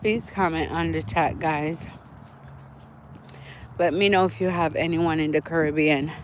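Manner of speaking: breathing heavily from walking; panting a little between words. Real, not acted. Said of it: "I'm sorry for breathing heavy".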